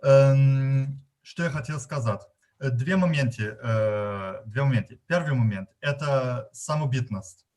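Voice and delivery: Russian with a German accent; non-native Russian, German accent. Real, not acted. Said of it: "если мой русский не очень нормативный".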